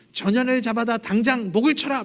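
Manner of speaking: 양반의 호통; retold yell. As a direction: bark the order to have her beheaded. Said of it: "소리를 지르면서".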